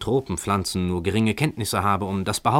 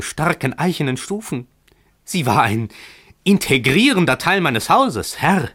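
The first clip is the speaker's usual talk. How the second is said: seething landlord; 8 semitones higher, 3 dB louder than usual. Acted. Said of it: "knirschte Emmerich hinauf".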